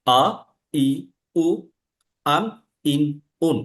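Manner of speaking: আ, ই, উ, আন, ইন, উন said one by one with pauses; six vowel forms. Shown as a demonstration. Teacher lists alif's six forms: measured, clear. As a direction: spell out the six sounds slowly and clearly. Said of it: "আলিফের ছয়টা pattern".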